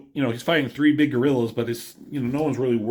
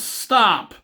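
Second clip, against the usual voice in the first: mock yell, high and louder; retold yell; 10 semitones higher, 5 dB louder than usual. Shauna racing to stop him, retold as a high mock yell. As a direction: imitate a character yelling out to halt someone. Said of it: "She yells".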